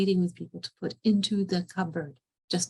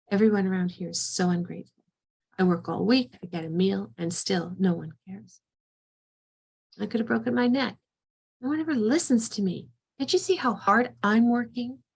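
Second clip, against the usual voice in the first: angry. Retold or imitated. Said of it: "really angry and frustrated".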